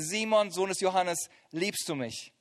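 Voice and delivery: Jesus tenderly asking Peter on the beach; gentle question. Acted. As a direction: ask it gently, as a friend.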